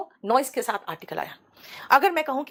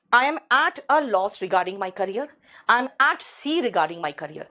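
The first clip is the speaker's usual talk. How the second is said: slow model sentences; 2 semitones lower, much slower than usual. Shown as a demonstration. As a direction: read both sentences very slowly like a teacher. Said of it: "तो मैं क्या बोलूँगी?".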